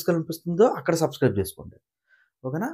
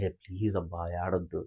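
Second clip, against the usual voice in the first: softer, lower soothing words; retold consoling; 9 semitones lower, 8 dB quieter than usual. Ramu consoling the crying Tanuja, soft and low. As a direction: gently comfort a crying friend. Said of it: "ఓదారుస్తూ ఉంటారనమాట".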